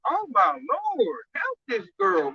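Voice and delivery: slow, drawn-out appeal to heaven; exasperated mock prayer. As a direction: stretch it out in mock dismay. Exasperated prayer at young women.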